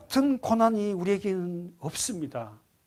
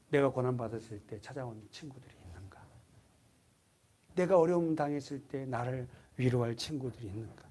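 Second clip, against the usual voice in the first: whispered, soft soul-searching question; hushed question; 6 semitones lower, 9 dB quieter than usual. Acted. Preacher asking the congregation in a hush. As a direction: lean in and ask it under the breath.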